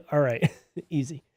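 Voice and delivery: usual speaking voice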